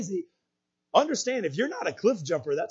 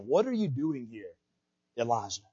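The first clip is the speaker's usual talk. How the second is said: hushed, the name dropping lower; whispered question; 6 semitones lower, 6 dB quieter than usual. Retold or imitated. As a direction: softly imitate a whispered question. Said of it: "when he whispers".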